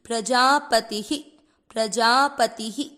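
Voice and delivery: प्रजापतिः with the ending echoed as ही; प्रजापतिः ending in a light ही; visarga as ही. Shown as a demonstration. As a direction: stretch प्रजापतिः and let the visarga sound like ही. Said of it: "ही".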